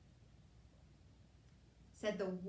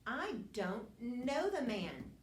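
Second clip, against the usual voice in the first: slow, louder, higher insistent denial; sworn denial; 4 semitones higher, 4 dB louder, slower than usual. Retold or imitated. Peter swearing to the crowd, slow and loud. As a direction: swear it out, each word pressed. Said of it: "He denied it again with an oath".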